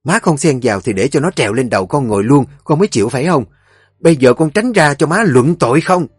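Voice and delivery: loud, high fast arguing; mother and son quarrelling over the wife, angry; heated quarrel. Acted. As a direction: fight back hard.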